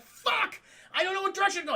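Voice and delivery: high-pitched flustered cry; mock panic. Acting out the driver who just hit the sign, panicked. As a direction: imitate a lost driver in a panic.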